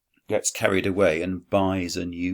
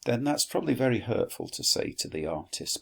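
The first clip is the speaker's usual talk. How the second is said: mock reproach; 6 semitones higher than usual. Teacher scolding Quintus in aside.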